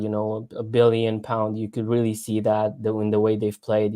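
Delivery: mock praise for the rival; dry sarcastic compliments. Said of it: "it's sarcasm. Can you feel it, sarcasm?".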